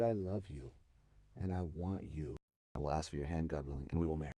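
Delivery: low, softened, understated declaration of love; heartfelt confession. A narrator's reading. Shepherd asks his beloved to marry him, heartfelt and quiet. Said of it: "he opened his heart".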